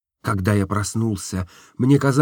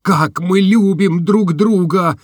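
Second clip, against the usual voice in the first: slow, louder exclamation; cried out; 8 semitones higher, 5 dB louder, slower than usual. A narrator's reading. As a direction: cry the words back to her. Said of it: "закричал я". (громко, медленно, восклицая)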